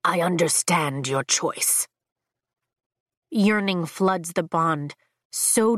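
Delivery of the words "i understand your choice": low, cool, lordly dragon; a lower, measured verdict; deep dragon voice. Acted. Dragon Leothan speaks.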